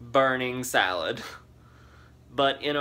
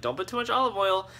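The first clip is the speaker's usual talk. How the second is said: whispered aunt quote; 5 semitones higher, faster than usual. Retold or imitated. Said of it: "my aunt was like".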